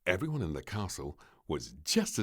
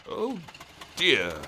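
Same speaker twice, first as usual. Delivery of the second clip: understated groan; mild groan; 9 semitones higher, 8 dB louder than usual. Acted. The king when the car won't start, mild groan. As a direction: sigh it out, lightly voiced. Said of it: "groaned the king".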